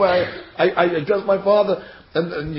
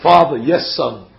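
mildly stilted formal address, dropping low on the reply; lightly mock a stiff father-and-son exchange; 4 semitones lower, 5 dB louder, slower than usual. Son addresses father in private, mildly over-formal. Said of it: "Why are they being so formal?".

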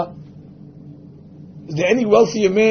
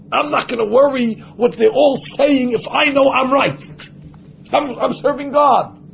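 raised-pitch, emphatic self-assurance; confident self-talk; 5 semitones higher than usual. Acted. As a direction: declare it like nobody can sway you.

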